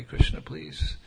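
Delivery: breathy whisper of a silent prayer. Retold or imitated. Speaker praying inwardly for the listener, whispered. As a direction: whisper a plea to Krishna. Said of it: "and I pray".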